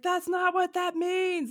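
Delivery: slow, high-pitched objection; mock exasperation. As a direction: stretch it out high in disbelief. Acting out past exasperation.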